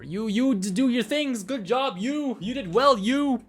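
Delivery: high, bouncy singsong; playful praise. Pretend. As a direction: send them off with silly praise. Dismisses adviser with silly praise.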